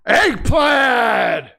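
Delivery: shouted name at the end of the call; announcer shout of the champion's name; ring announcer shout. Pretend. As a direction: belt the name out to the arena. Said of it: "it's gonna be a loud one".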